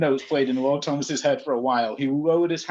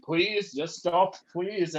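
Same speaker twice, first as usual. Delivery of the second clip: begging through laughs; 4 semitones higher, much slower than usual. Real, not acted. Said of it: "I can't do the voice".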